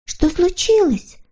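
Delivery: put-on high, drawn-out girlish concern; sympathetic. A narrator's reading. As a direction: ask with sympathy in a high little voice. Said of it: "сочувственно поинтересовалась Снорочка". (сочувственно, тонким голоском)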